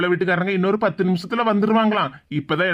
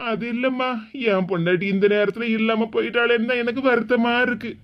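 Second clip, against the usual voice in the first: mildly tearful regret; sorrowful. Acted. Widower missing his wife on the big day, sorrowful. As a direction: explain your grief with a touch of tears. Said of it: "நீங்களே இப்படி வருத்தப்பட்டுக்கிட்டு".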